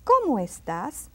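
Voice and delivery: "Cómo estás" stressed on "Có" and "tás"; accented syllables. Shown as a demonstration. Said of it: "See those accents?".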